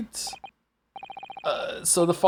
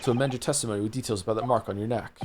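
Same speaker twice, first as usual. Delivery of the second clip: low, soft judge voice; a hint of a grave judge; stern judge; 8 semitones lower, 5 dB quieter, faster than usual. Judge to witness, ordering him to amend testimony, low and grave.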